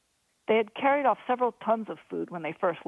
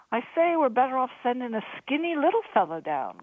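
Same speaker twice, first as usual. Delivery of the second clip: grinning; 6 semitones higher than usual. A narrator's reading. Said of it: "Crean grinned".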